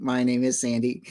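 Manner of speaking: stiff mechanical robot voice. Pretend. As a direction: talk like a robot. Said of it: "why are we talking like robots".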